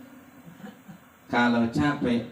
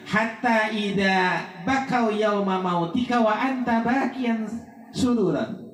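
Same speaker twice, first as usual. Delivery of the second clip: reciting Arabic; 4 semitones higher than usual. Shown as a demonstration. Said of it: "kata ulama".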